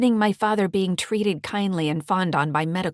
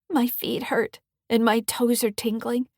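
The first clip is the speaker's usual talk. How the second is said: put-on higher, tearful young girl voice; a scared girl who hurts; teen daughter; 5 semitones higher, 3 dB louder than usual. Kelly voiced by narrator.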